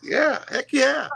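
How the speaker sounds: high, slow, hammed-up Santa; jolly Santa. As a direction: stretch it out like a beaming Santa. Santa answering the boy.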